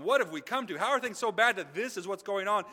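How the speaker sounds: building royal despair, a little hammed-up; mock anguished outcry. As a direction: cry out in acted dismay. King acted in anguished realisation.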